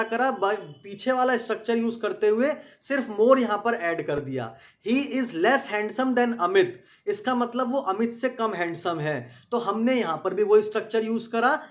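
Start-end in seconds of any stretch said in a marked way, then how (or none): 4.9-6.8 slow, deliberate reading of an example; slow dictation. Shown as a demonstration. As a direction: read it word by word for the class. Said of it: "teacher reads example sentence".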